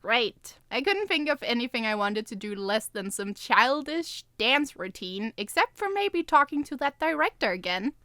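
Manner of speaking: lightly voiced first-person storytelling; story narration. A narrator's reading. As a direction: read the chapter evenly to listeners.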